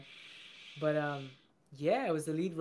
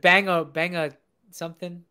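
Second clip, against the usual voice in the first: put-on loud Boston accent; 2 semitones higher, 12 dB louder than usual. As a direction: shout it like a Boston guy. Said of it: "Boston accent".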